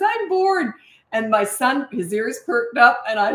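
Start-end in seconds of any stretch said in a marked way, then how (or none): 0.0-0.7 much higher, lightly bratty "I'm bored"; a milder version of the complaining kid; mildly snotty. Retold or imitated. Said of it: "didn't say it quite as snotty".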